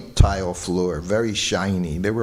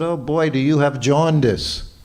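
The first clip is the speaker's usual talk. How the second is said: higher, lightly amused question; amused teasing; 5 semitones higher than usual. Retold or imitated. Guru amused at sick servant, higher teasing question. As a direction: tease him about his yellow eyes. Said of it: "looked at me and started laughing".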